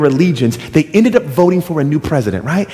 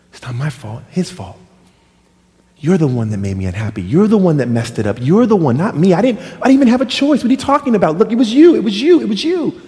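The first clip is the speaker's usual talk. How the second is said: Adam arguing it's not his fault; defensive blaming building; 3 semitones higher than usual. Acted. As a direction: push the blame off harder and harder.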